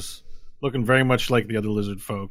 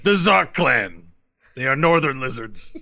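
slow, raised lizard-warrior voice; Brahmi; 3 semitones higher, 6 dB louder than usual. Acted. Lizard warrior explains the Zark clan to visitors, slow and emphatic. Game master answers in character.

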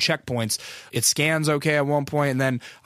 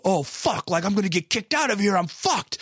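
higher-pitched, hushed-level mock dread; retold panic; 6 semitones higher than usual. Guest fears getting kicked out of festival, mock panic. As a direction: act out a mild inner panic.

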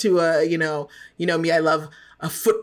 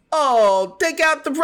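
higher-pitched hint of British; attempted British accent; 7 semitones higher than usual. Shown as a demonstration. Co-host demonstrating for the kids' sake, shaky attempt at British accent. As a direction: try a British accent and abandon it. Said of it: "let me hear your British accent".

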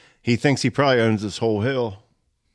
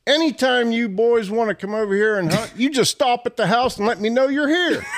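friendly invite; 10 semitones higher than usual. Retold or imitated. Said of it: "He says".

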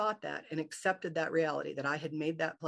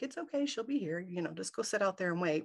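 mom reassuring; 3 semitones higher than usual. Retold or imitated. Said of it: "she's like".

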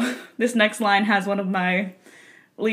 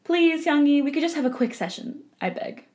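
trying a voice; 4 semitones higher, 3 dB quieter than usual. Pretend. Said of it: "switch my voice reading".

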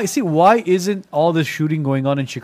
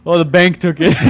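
bank line with a laugh; chuckling while saying it; laughing through it; 2 semitones higher, 6 dB louder than usual. Retold or imitated. Parent's answer, laughing.

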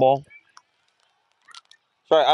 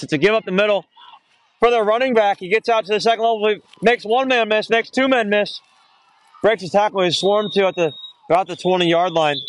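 pitched up and pushing the run call; excited play-by-play; 7 semitones higher than usual. Real, not acted. Commentator calling a breakaway run to listeners, excited. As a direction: ride the run as he breaks tackles.

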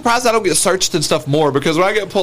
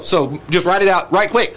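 casual hurry; slower than usual. Retold or imitated. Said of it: "he'll just, like, hand him the license".

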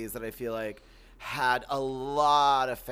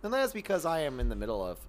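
low creaky fry from allergies; allergy-worn creaky voice; vocal fry; 3 semitones lower than usual. Real, not acted. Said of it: "my vocal fry is a little worse than usual".

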